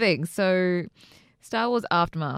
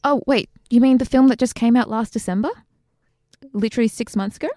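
mock surprise; 6 semitones higher, 11 dB louder than usual. Real, not acted.

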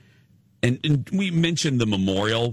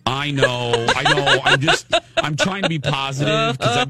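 laughing; 4 semitones higher, 5 dB louder than usual. Real, not acted. Laughing off teasing.

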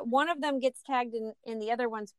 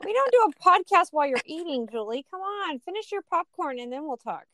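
mock scolding; 4 semitones higher, 5 dB louder than usual. Real, not acted. Teasing cohost for eating on podcast.

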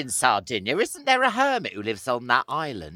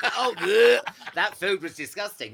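fake sick; 4 semitones higher, slower than usual. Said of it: "So you pretend you're being sick".

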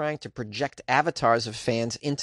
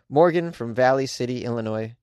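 commercial voice. Pretend. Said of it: "That sounds like a commercial".

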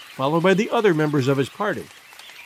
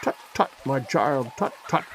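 kindly and indulgent; 4 semitones lower, 6 dB quieter than usual. A narrator's reading. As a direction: soothe the child gently. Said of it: "in a kindly and indulgent tone".

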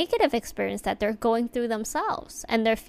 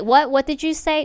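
a touch louder, sharp and confrontational; mock harsh retort; 4 semitones higher, 4 dB louder than usual. Coworker snapping at you, mildly imitated harsh tone. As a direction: play the coworker snapping back, what did you say. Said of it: "talk to you just in the way of".

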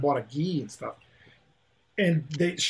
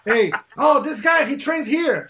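imitating an eager recommendation, high and loud; retold talking-up; 9 semitones higher, 5 dB louder than usual. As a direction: talk the guy up, pitch raised. Imagining friend's hype to master.

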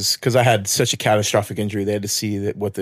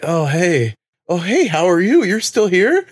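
a mock dopey, flirty wake-up, climbing higher; groggy flirting; 8 semitones higher, 4 dB louder, slower than usual. Waking mid-surgery, greeting the nurse in a mock drowsy flirt. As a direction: lightly play yourself half-awake from anesthesia. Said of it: "you can hear me wake up".

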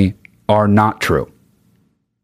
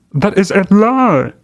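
mock a preacher's odd Kermit Cajun accent, pitched way up; Rodney Howard-Browne; 9 semitones higher than usual. Host parroting the preacher's clip, mocking Kermit Cajun accent. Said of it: "That's what his accent is".

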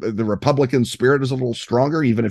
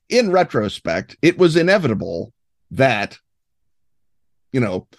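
a hint of pompous BBC voice-over; stuffy BBC narrator. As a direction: deliver it like a stuffy history narrator. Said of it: "your stuffiest B B C narrator voice".

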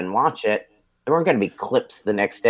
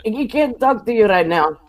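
higher, Brooklyn-Italian broken English; imitating the receptionist; 9 semitones higher than usual. Receptionist telling a caller he is away, Brooklyn-Italian accent. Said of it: "then I heard her say once".

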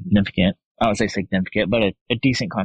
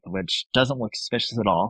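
sarcastic; 3 semitones higher than usual. Real, not acted. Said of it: "Slight sarcasm".

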